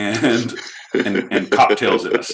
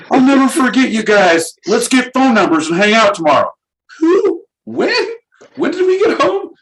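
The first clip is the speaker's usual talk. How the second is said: put-on drunk raver; 13 semitones higher, 5 dB louder than usual.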